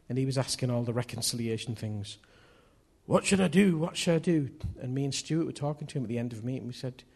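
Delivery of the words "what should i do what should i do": higher-pitched, urgent repeated plea; pleading questioner. Acted. Older man pressing the preachers about reconciliation, pleading. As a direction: ask it insistently, a little higher. Acts the anxious man asking.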